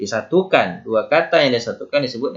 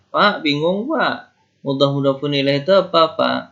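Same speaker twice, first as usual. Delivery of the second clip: higher pleading student voice asking the teacher; higher, confused pupil question; 4 semitones higher than usual. Pretend. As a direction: play a puzzled pupil calling out to Pak.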